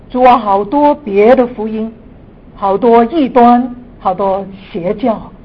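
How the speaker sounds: earnest prayer voice. Acted. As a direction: pray fervently, building to emphasis. Opening prayer before teaching.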